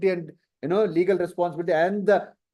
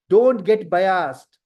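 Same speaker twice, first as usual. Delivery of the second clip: slow, deliberate, a little louder; slow warning; 4 dB louder, much slower than usual. Real, not acted. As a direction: lay each word down like a warning. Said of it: "teacher warns students firmly".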